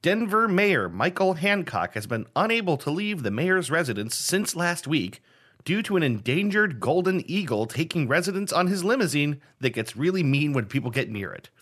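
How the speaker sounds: measured, emphatic news-reader delivery; mock news read. Host reading a game story to player, newsreader style. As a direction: read it out like a headline item.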